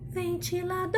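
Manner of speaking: high call stretching final DOR; calling the word. Shown as a demonstration. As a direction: call it out, holding the last syllable. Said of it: "Chama ele".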